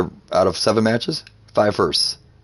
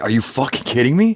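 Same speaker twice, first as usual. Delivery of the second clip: higher, disbelieving question; incredulous; 5 semitones higher than usual. Retold or imitated. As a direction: react to a little kid on the mic. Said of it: "you're like".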